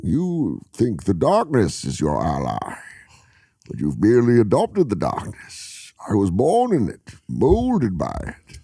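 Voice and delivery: Bane impression. Reciting the Bane speech to a friend. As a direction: menace through slow restraint. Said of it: "Tom Hardy rules".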